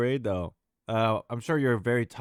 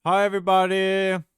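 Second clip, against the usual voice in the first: talking with a mouthful of food; chewing through the words; chewing while talking; 7 semitones higher, 9 dB louder than usual. Real, not acted. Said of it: "Sorry, I'm chewing".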